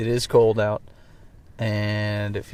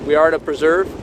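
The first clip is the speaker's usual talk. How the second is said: raised voice against the gusts; shouting over wind; 4 semitones higher, 8 dB louder than usual. Real, not acted. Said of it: "If you can hear me over the wind".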